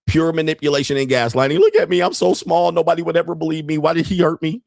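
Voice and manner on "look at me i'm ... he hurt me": squeaky high pleading whine, poor little me; mock victim voice. Mocking a manipulator who plays the helpless victim, squeaky high whine. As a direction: play the tiny helpless victim for laughs.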